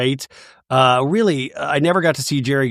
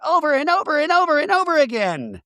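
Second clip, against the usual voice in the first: mock screaming; 13 semitones higher than usual. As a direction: wail it in a put-on voice. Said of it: "Nia's screaming".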